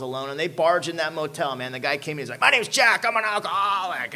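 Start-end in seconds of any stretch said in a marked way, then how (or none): 2.4-4.1 higher, loud cheery intro; hearty AA greeter. Retold or imitated. AA volunteer greeting the drunk, hammed-up cheery. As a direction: beam it like a welcoming greeter.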